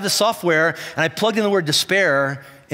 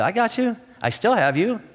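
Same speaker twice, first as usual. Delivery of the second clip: gentle reassurance. Retold or imitated. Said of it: "he'll say".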